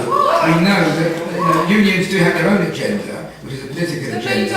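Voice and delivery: laughing. Real, not acted. Councillor laughing while criticising unions.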